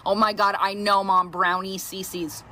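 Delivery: low, bored eye-roll, slowing at the end; mock exasperation. Daughter hearing mom's old story, wearily exasperated. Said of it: "she'll roll her eyes at me".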